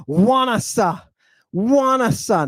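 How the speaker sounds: "wanasa" opened with a clear w; initial W sound. Shown as a demonstration. Teacher reading this Greek word with a hidden digamma, initial W sound. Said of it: "it's pronounced like a W".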